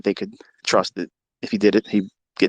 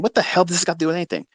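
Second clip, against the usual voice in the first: imitating a skeptical listener; 6 semitones higher, much faster than usual. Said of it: "you're probably saying".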